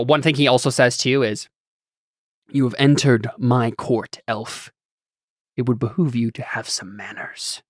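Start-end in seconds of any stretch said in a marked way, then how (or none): 2.5-7.6 haughty lord. Acted. Lord to an elf in his court, haughty and hushed. Game master voicing the lord.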